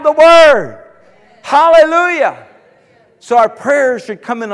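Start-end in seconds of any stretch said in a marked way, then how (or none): 0.0-2.5 rising preach. Real, not acted. Preacher climax.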